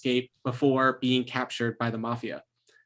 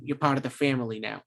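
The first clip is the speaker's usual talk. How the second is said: lightly voiced New York mobster; New York mafia accent. Shown as a demonstration. Game master showing players his mafia voice, rough New York accent attempt. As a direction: give a half-hearted New York mob accent. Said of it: "like, that New York".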